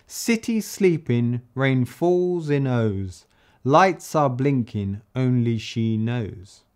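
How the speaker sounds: slow, rhythmic verse recital; reciting the verse. Shown as a demonstration. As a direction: perform the little verse slowly, beat by beat. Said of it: "the little verse I made".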